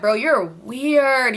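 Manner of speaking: slow, dragged-out annoyed line; annoyed drawl. Retold or imitated. Annoyed at boyfriend posting, slow drawled complaint. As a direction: stretch it out, fed up. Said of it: "I was so annoyed".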